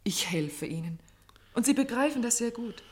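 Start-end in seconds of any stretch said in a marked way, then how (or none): 0.0-1.0 whispered. Acted. Pleading with the doctor privately.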